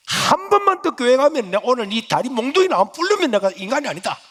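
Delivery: high, loud threat; threatening mother. Retold or imitated. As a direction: threaten to break his legs. (아들을 위협하는 어머니)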